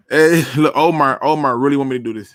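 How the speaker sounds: ordinary talk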